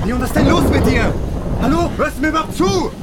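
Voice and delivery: frustrated shout. Acted. Friend frozen, ignoring him.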